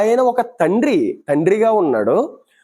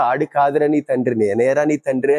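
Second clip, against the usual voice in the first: tearful plea; 5 semitones lower than usual. Retold or imitated. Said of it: "ఆ ఫీలింగ్లో చెబుతున్నాడు".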